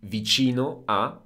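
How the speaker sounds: "vicino a" with a clear Italian "ci" as in "chee"; Italian pronunciation. Shown as a demonstration. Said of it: "which means close to".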